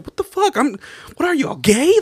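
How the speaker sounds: imitating the brother mad at the girls, high mock shout; mock angry outburst. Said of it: "he'd get mad".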